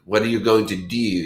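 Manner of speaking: mock Baltimore fronted oo; light Baltimore accent on the oo. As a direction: imitate Baltimore, turning do into "dew". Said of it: "the way they say the".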